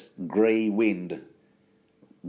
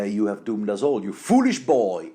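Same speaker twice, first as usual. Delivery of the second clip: lightly acted rebuke, rising louder at the end; scolding mother; 5 dB louder than usual. Podcaster voicing mother blaming son for lost alliance, mock scolding.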